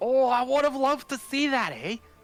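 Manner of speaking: very high, geeky, eager, excited gushing. Voicing a villager hearing about a huge Warforged: nerding out excitedly. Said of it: "he's kinda, like, nerding out".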